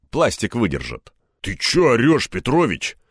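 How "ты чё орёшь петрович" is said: mildly taken-aback question; slightly higher, puzzled tone; surprised. A narrator's reading. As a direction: ask in puzzled surprise, voice a little raised. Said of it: "удивился Румянцев".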